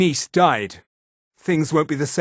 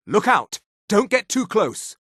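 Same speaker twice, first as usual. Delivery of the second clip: higher-pitched cry of alarm; urgent warning; 6 semitones higher than usual. Acted. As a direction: warn them back urgently. Warning of sudden danger.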